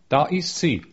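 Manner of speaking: put-on understated childlike cry, lifted in pitch; child's excited cry. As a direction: call out like a thrilled child, without a real scream. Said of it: "begann das Kind von neuem zu schreien".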